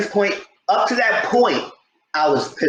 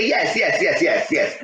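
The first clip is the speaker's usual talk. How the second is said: laughing yes. Retold or imitated. Friend eagerly agreeing in story.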